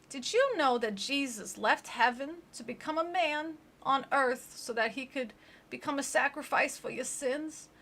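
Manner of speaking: lightly voiced preachy grandmother; preachy grandma. Grandma preaching to dying granddaughter, mock-pious.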